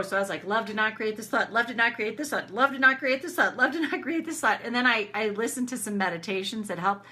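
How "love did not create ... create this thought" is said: urgent mantra. Retold or imitated. Retells frantic repeated mantra.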